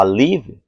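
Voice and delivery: "live" as "leevi", like "leave"; mistaken long i. Shown as a demonstration. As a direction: say "live" with long ee and added final i. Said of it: "é partir".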